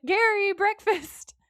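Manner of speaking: high, loud, drawn-out call; mom calling out. Retold or imitated. Gary's mom calling him to breakfast, high drawn-out shout. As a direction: sing out the name like a calling parent.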